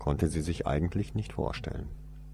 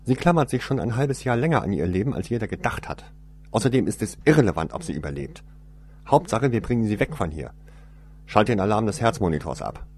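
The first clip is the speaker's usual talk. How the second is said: higher, louder and fast; brisk and impatient, cutting him off; stern woman; 4 semitones higher, 5 dB louder, faster than usual. Acted. Cold woman giving orders.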